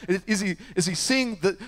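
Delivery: eager questioning. Retold or imitated. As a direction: ask eagerly, leaning in.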